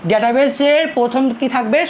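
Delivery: slow, careful classroom question; slowly, for students. Shown as a demonstration. Teacher promised students to speak slowly, slow questioning tone. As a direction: spell it out slowly so nobody misses it. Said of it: "এখন থেকে slowly বলবো".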